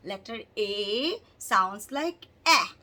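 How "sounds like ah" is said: sounds like ah, slow and louder for the class; slow model. Shown as a demonstration. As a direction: model the ah sound clearly for kids to repeat. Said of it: "Say it with me".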